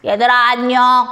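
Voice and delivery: lightly put-on character hello; lightly voiced puppet. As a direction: greet the children as a puppet character. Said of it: "우리 내 마음이하고 인사 한번 해볼까요?".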